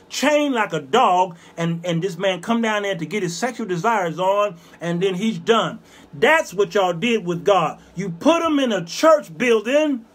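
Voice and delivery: forceful sermon delivery, driving home the accusation; preaching. Real, not acted. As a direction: preach it hard, punching key words.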